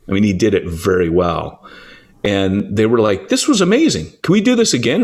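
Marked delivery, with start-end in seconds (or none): 3.3-5.0 high-pitched eager gushing; imitated excitement. Imitating guests after the debate, excited and eager. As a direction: plead like a thrilled fan.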